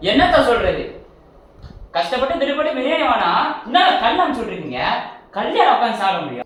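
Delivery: loud, high furious rant down the phone; angry complaint. Acted. Customer yelling at the biryani shop, angry shout.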